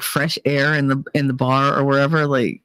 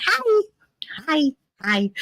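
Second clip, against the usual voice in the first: put-on drunken greeting; 10 semitones higher than usual. Drunk drape over people.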